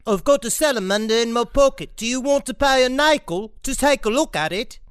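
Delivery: hammed-up bad British accent; lightly creepy mock British offer. Teasing co-hosts with a creepy line, in a mock British accent. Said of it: "pedophile's linguistic class".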